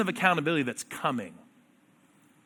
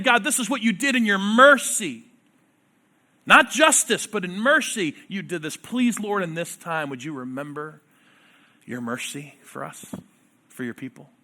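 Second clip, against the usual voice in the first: prayerful reading. Acted. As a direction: pray it, then let it sink. Voicing the prophet's prayer.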